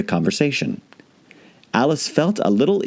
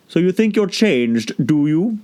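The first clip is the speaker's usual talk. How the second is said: higher, slow creature voice; caterpillar voice; 8 semitones higher, slower than usual. A narrator's reading. Caterpillar probing Alice, slow and sceptical. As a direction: sceptical and unhurried.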